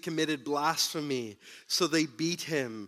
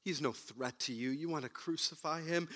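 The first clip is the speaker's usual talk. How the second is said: Pilate pleading; 4 semitones lower, 10 dB quieter than usual. Retold or imitated. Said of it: "He says".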